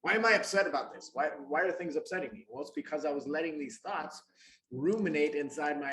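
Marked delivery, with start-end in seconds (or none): 0.0-2.4 exasperated, asking herself faster and louder; frustrated self-talk. Retold or imitated. Retelling her past frustrated thoughts in a louder exasperated voice. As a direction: vent the frustration at yourself. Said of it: "I'd get all frustrated and upset".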